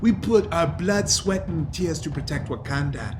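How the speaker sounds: put-on battle-hardened older man, mildly angry; accented voice of an aggrieved old fighter; pissed Wakandan veteran. Captured Wakandan protesting being cast aside, indignant character voice.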